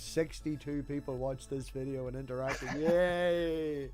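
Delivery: soft, slow mock cheer; mock delight. Host plays guest celebrating downvotes, mock-pleased. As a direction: quietly imitate someone pleased, drawing it out.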